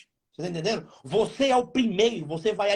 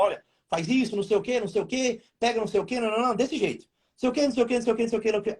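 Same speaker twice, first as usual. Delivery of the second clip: wife giving orders; 3 semitones higher, much faster than usual. Retold or imitated. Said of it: "Muda na hora".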